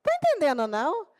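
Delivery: high, mock surprise at the boy. Teacher to vomiting boy, mock surprised. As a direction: feign amazement, pitch jumping up. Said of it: "Aí eu falei".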